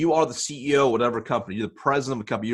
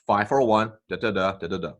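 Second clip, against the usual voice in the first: direct voicemail script. Shown as a demonstration. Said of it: "the script sounds like this".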